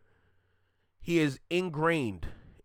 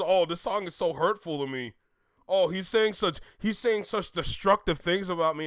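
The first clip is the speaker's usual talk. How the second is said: mock hurt rapper; 3 semitones higher than usual. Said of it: "you trying to get rid of this song".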